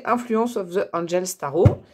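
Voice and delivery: English title with French sounds; French-accented English. Real, not acted. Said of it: "mon accent anglais". (titre anglais avec l'accent français)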